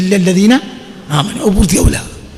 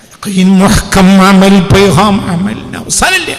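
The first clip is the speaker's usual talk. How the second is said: slow, loud preaching call; proclaiming; 5 dB louder, much slower than usual. Acted. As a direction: ring it out slowly to the crowd. (ഉറക്കെ പ്രഖ്യാപനം)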